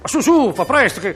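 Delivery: an annoyed husband hurrying his wife along; flustered husband. Acted. Husband in his tuxedo rushing his wife to La Scala, flustered.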